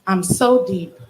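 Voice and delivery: deadpan mock-solemn refrain; mock profound. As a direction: say it like a self-important poet. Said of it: "in this tone of voice".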